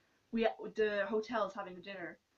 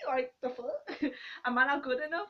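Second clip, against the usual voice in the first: laughing offense; 4 semitones higher, 3 dB louder than usual. Real, not acted. Friend called attractive, she's insulted.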